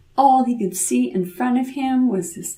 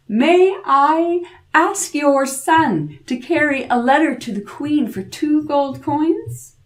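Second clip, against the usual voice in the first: sly king; 6 semitones higher than usual. Acted. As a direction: coax the favour out slyly. King asks a favour.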